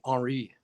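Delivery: "Henri" with a silent H and French vowels; French pronunciation. Shown as a demonstration. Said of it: "that's how you say".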